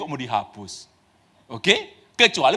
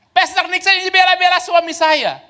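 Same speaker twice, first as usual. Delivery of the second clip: angry accusation; 12 semitones higher, 7 dB louder than usual. Retold or imitated. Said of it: "Karena dia bilang apa?".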